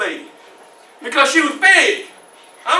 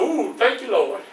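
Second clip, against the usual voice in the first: low, soft prayer of relief; hushed, sinking relief; relieved thanks; 3 semitones lower, 7 dB quieter than usual. Acted. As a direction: breathe quiet thanks after a close call. Quiet thanks after danger passes.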